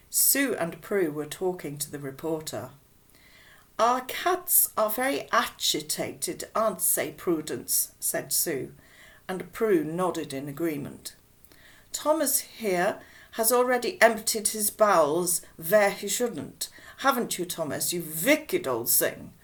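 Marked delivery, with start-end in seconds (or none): 3.8-7.9 put-on German-accented woman talking to a reporter; chatty neighbour with a German accent. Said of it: "in her German accent". 11.9-19.3 put-on German-accented playful scolding. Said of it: "in her German accent".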